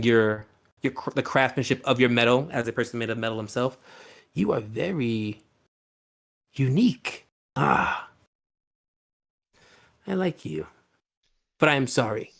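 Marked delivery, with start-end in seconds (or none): 4.3-12.3 admiring host. Acted. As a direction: marvel at the metal one.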